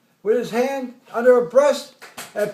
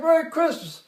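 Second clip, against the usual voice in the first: mock yell in reply; retold yell back; 5 semitones higher than usual. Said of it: "We all yell back".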